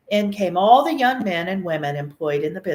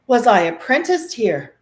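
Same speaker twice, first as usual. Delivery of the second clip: amazed question; 4 semitones higher, 6 dB louder than usual. A narrator's reading. Scrooge recognizing old workplace.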